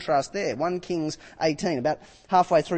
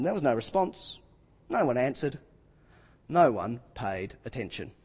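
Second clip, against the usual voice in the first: quiet, deliberate reading; quiet emphasis; 6 semitones lower, 6 dB quieter than usual. Shown as a demonstration. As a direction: let it land hushed. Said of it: "I like this verse".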